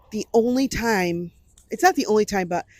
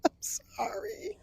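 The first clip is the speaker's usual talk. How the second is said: whispered through laughter; breathless from laughing; 10 semitones higher, 15 dB quieter, much slower than usual. Real, not acted. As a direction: gasp it out after laughing. Apology after long laugh.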